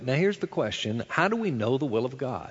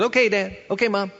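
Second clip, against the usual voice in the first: put-on eager little boy; 6 semitones higher than usual. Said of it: "He goes".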